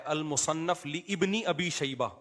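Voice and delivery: ابنی said slowly with its initial "i" sounded; mispronounced name. Retold or imitated. Quoting the engineer's clip for listeners, mispronounced name. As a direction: read out لی ابنی as two separate words. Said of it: "engineer صاحب بتا رہے ہیں".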